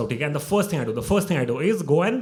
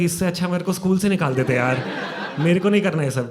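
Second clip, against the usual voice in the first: laughing protest; 4 semitones higher, 4 dB louder, much faster than usual. Retold or imitated.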